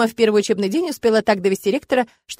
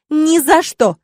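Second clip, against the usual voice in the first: high, loud outraged shout; furious refusal; 7 semitones higher, 7 dB louder, much slower than usual. A narrator's reading. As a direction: fling the refusal back.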